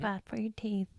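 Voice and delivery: hushed whispered aside. Real, not acted. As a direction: breathe it out in a whisper.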